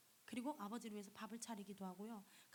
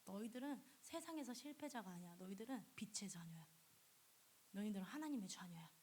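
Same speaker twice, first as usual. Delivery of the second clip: softer, hushed words from God; God gently comforting his children, softer; tender reassurance; 3 semitones lower, 4 dB quieter than usual. Acted. Preacher voices God softly telling believers they're his children.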